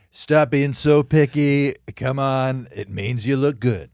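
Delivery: slow, loud, drawn-out Trump voice; a quick Donald Trump impression. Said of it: "Who are you, James Austin Johnson".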